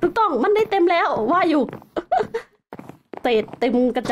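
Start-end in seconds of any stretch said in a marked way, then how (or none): 1.7-2.4 short high, light laugh; brief real chuckle. Real, not acted. Streamer amused that the tank is full, chuckle.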